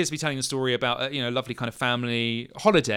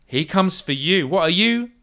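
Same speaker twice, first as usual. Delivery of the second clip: warning turning to a higher, louder challenge; guarded in-character warning; wary half-elf; 4 semitones higher, 3 dB louder than usual. Acted. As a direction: warn them off, then question them. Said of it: "steps back for a second and goes".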